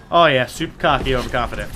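dry sarcastic "oh yeah"; mock agreement, tongue in cheek. Real, not acted. Streamer mocking the idea he is cocky, dry sarcasm. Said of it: "real life, not super cocky".

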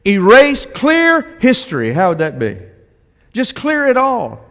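dreamy delete wish. Acted. Imagining hitting delete on life.

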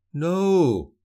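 sharp high cry of alarm. A narrator's reading. Rebel leader crying out as the blow misses, loud. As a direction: shout it out to stop the blow. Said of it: "cried Halim".

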